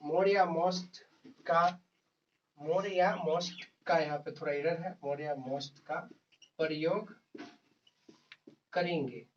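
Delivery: word by word, long pauses for note-taking; teacher dictating slowly to students; slow dictation. Acted. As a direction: dictate a definition in small, measured chunks. Dictates while writing.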